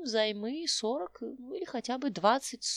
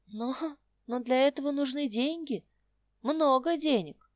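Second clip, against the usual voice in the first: sighing; 3 semitones higher, 5 dB louder than usual. Acted. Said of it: "вздохнула Роза".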